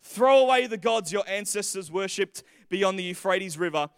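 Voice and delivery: lightly voiced gladiator-movie hero, slowing towards the end; Russell Crowe epic delivery. Preacher reads Joshua's charge as a movie scene, lightly epic. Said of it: "could absolutely be in an epic movie, a gladiator type, delivered by Russell Crowe".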